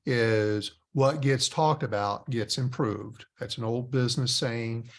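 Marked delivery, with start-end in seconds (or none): 0.1-3.2 slow Southern accent. Shown as a demonstration. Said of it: "I'm gonna say it in a different way in a Southern accent".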